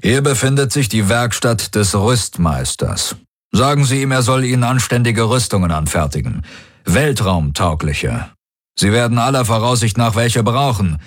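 höher, bestimmt befehlend; Feldherr Daraios. Acted. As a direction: klare Anweisung eines Feldherrn. Daraios voiced higher. (hoher, fester Befehlston)

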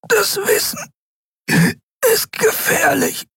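sehr hohe, erstickte Stimme; nach Luft ringend. A narrator's reading. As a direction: press jedes Wort ohne Luft heraus. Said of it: "Kai rang nach Luft". (erstickt, nach Atem ringend)

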